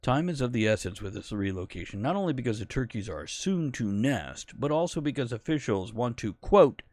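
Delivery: lightly put-on newsreader delivery; newscast voice. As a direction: read it like a TV news anchor. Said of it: "my newscast voice".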